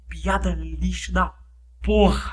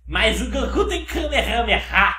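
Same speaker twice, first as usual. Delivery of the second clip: whiny objector voice; 2 semitones higher than usual. Pretend. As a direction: mimic a stubborn fan. Diálogo imaginado com fã. (voz de fã chorão)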